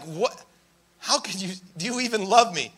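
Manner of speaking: soft, wounded disbelief; hushed mock-hurt questioning; imitating hurt. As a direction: play a wife stung by criticism, quietly. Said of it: "just so hurt".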